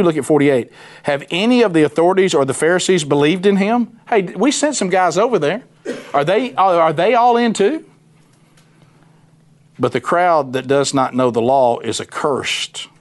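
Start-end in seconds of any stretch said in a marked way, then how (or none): 1.0-7.8 higher, laughing disbelief; mocking laugh. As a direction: laugh at the idea while rising in pitch.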